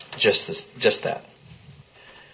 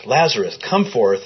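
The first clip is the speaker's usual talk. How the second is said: raised voice, moderately loud retold command; loud cry; 5 dB louder than usual. Preacher quoting the call to Lazarus at the tomb, raised voice. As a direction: call it out firmly, without a full shout. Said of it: "cried out in a loud voice".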